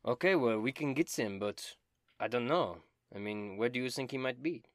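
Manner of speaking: high, loud and theatrical; Dobin, eager bard. Acted. Dobin bragging about dragon slaying, high and loud. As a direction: ham up the vainglorious bard.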